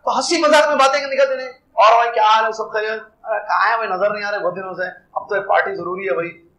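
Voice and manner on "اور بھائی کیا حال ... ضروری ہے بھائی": casual banter. Retold or imitated. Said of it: "ایسے ہنسی".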